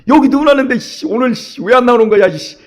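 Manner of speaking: mock annoyed muttering, pitch up; irritated grumbling. Pastor waiting in the car for the deaconess, irritated muttering. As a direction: grumble impatiently while waiting. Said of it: "짜증이 밀려오는 거".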